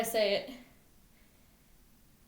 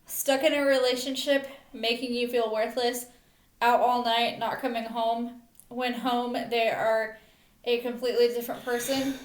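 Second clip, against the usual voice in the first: measured poem recital in short phrases; earnest spoken verse; poem reading. Real, not acted. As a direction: read your own poem aloud, line by line. Reads own poem aloud.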